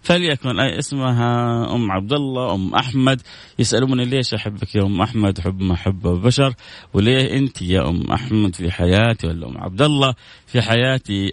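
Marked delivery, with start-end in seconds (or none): 3.6-11.3 tender verse for a mother; rereading the poem. Acted. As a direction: recite the verse again, inserting the mother's name. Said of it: "بقراها مرة ثانية".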